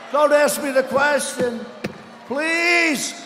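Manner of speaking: hammed-up gasping, pleading voice; mocking a rival choking on stage; mock choking Bloomberg. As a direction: play a panicky debater gasping for air. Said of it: "He's going".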